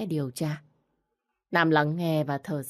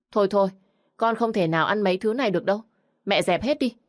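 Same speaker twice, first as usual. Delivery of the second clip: rude refusal; 4 semitones higher, 4 dB louder, faster than usual. Acted. Spoiled bride refuses food.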